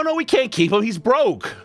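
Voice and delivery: ordinary talk, nothing marked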